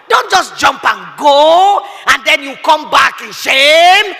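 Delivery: slow shouted warning; loud warning. Real, not acted. Preacher warning loudly.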